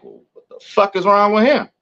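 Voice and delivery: high, incredulous office voice; mock incredulous staff. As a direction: ask it like you can't believe him.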